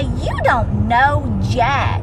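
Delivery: drawn out, every word weighted; you don't know jack, said slowly and firmly; a slow, deliberate put-down to her haters; slow, pointed retort. Retold or imitated. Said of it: "I want to shake 'em and say".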